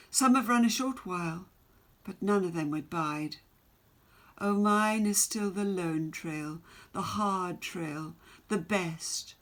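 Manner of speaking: measured, rhythmic poem reading; stately poem reading with long pauses; poem recital. Acted. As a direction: read it like a proud ballad. Teacher reads poem aloud.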